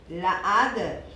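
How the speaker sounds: «la ada» slurred together as one sound; «la ada» слитно, гласные сливаются; cacophony demo. Shown as a demonstration. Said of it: "ia juntar o som desse artigo".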